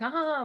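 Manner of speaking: a high, odd nervous laugh burst; a high callous little laugh; weird laugh. Shown as a demonstration. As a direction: let out a strange callous laugh. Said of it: "like this weird laughing".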